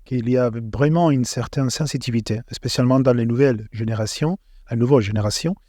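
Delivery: French with a Spanish accent; Spanish speaker talking French; foreign accent in french. Real, not acted. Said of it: "Et ton français est bien meilleur que mon espagnol". (accent espagnol en français)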